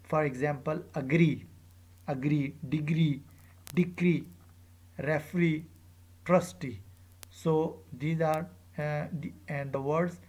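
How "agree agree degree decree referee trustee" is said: final "ee" stressed in agree, degree, decree, referee, trustee; stress on last syllable. Shown as a demonstration. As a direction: list them one by one, aGREE, deGREE, deCREE. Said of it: "on the last syllable".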